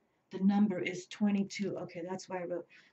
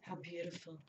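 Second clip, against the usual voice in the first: soft awe; 12 dB quieter than usual. Real, not acted. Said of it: "repeats the phrase, softer then normal".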